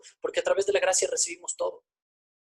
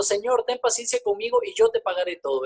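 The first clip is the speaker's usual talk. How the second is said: pleading servant; 11 semitones higher than usual. Acted. Servant begs his master in parable.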